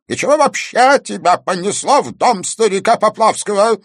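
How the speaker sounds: put-on old man furiously interrogating the girl; angry. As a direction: keep hammering her with the questions. Old man keeps raging.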